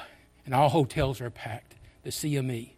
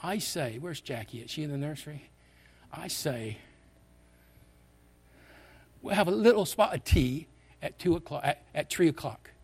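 imitated English accent, lightly put on; quoting an Englishman in a put-on English accent; 2 semitones higher than usual. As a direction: do a homespun English accent, slightly hammed. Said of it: "he had this English accent".

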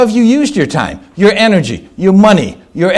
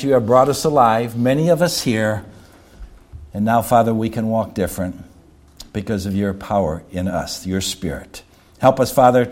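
closing prayer; 5 semitones lower than usual. Real, not acted. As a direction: pray aloud for the congregation, settling into a low voice.

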